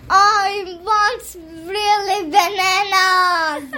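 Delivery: slow, drawn-out demand; mildly whiny sing-song demand; demanding monkey. Acted. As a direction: stretch out the plea like a wanting monkey. Monkey demands real bananas.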